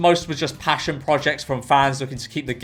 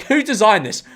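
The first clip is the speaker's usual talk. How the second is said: incredulous question, slightly raised pitch; 5 semitones higher than usual. Real, not acted. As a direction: ask it in baffled disbelief. First take of repeated rhetorical question.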